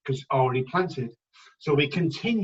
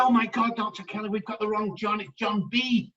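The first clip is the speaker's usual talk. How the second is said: panicked exclaim; 6 semitones higher than usual. Retold or imitated. Assistant bursts in panicking.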